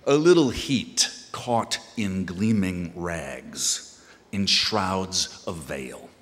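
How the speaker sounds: measured poem recital with pauses at line breaks; deliberate, formal delivery of a poem to an audience; poetry reading. Acted. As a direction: read it as verse, weighing each phrase. Reads own poem to audience.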